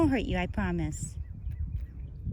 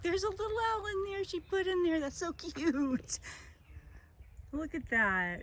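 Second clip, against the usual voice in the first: hushed and delighted; 9 semitones higher, 8 dB quieter than usual. Real, not acted. Hushed cute discovery.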